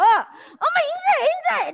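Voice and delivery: put-on high, insistent mom urging her child; high-pitched parental prodding; nagging mom. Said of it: "엄마들이 어떻게 해요".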